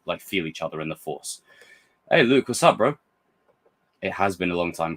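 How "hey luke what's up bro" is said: high, loud playful hello; excited greeting. Real, not acted. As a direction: call out to him like a mate. Greeting Luke on screen, excited.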